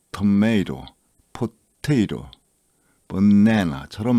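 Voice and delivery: 토마토, 포테이토, 바나나 with the first syllable quick and light and the second stressed; fast weak first syllable. Shown as a demonstration. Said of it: "다시 말해보면". (첫 음절은 빠르고 약하게, 둘째 음절에 강세)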